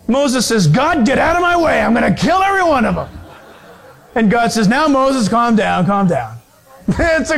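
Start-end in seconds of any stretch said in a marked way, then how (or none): 0.7-3.1 mock anger. Acts out Moses furious with Israel. 4.7-6.4 mock soothing. Acts out God soothing angry Moses.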